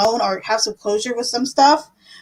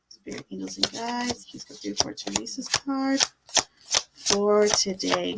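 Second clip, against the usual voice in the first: much softer, like a whispered prayer; hushed invocation; 3 semitones lower, 9 dB quieter than usual. Shown as a demonstration. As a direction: call on spirit softly. Repeats her tarot invocation.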